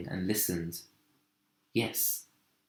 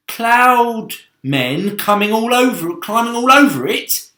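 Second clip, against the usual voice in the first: rising alarm; 12 semitones higher, 12 dB louder than usual. Acted. Centipede spotting cloud men, loud fearful cry. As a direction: let the fear burst out.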